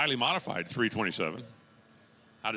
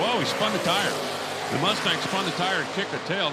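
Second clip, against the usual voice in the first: excited; 4 semitones higher, 4 dB louder than usual. Real, not acted. Announcer sees tire spin.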